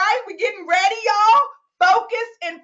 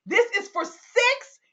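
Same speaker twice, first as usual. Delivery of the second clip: raised, emphatic announcement; building excitement; 5 semitones higher than usual. Real, not acted. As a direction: build up to the big news.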